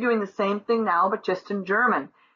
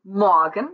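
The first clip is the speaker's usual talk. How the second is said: Morgen with MOR loud and punched, gen light; stress on first syllable; 5 dB louder than usual. Shown as a demonstration. Teacher models first-syllable stress in Morgen for students. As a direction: lean hard on the MOR of Morgen. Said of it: "the first syllable is accentuated".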